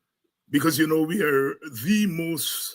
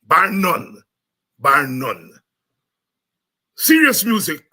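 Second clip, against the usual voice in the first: emphatic quoted students; 8 dB louder than usual. Retold or imitated. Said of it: "they say".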